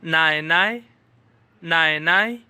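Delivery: नाय नाय said as Chinese nǎinai with a rising lilt; teacher demonstrating नाय नाय; Chinese word. Shown as a demonstration. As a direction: model नाय नाय with a rise on each. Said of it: "बाप की माँ को कहते हैं".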